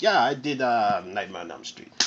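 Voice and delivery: put-on a low, murmured stab at a Finnish accent; mock Finnish accent. Reviewer imitates Renny Harlin's answer to the studio in a Finnish accent. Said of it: "I don't know what accent this, that was".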